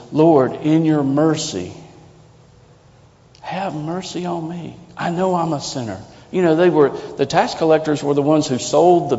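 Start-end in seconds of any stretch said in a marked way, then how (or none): 0.1-6.0 acted cry for mercy, pitched high; desperate plea. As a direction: cry out to God, pleading as a sinner. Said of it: "He cries out and says".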